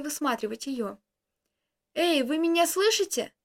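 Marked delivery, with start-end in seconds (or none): 1.9-3.3 calling out. Acted. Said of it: "позвал я".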